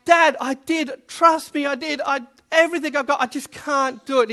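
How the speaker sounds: put-on pleading kid, only mildly tearful; crying child insisting. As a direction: plead like a small boy who gave up. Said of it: "crying still".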